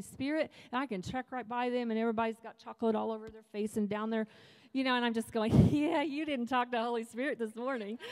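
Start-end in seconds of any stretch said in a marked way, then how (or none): 5.7-8.0 teasing through laughter, then a high squeal on I did; laughing mock taunt. Mocking churchgoers, laughing.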